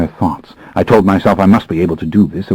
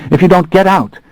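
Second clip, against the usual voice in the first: put-on young woman's higher threat, slightly shaky; quavering slightly; 12 semitones higher, 4 dB louder than usual. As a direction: threaten the police, nervous underneath. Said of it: "her voice quavering slightly".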